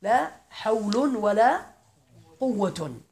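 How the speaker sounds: slow, drawn-out recitation of لا حول ولا قوة with ولا rising; teacher reciting slowly for students; model reading with nunation. Shown as a demonstration. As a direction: demonstrate the phrase slowly, stretching each word. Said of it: "فعليه تكون الجملة يا سمير".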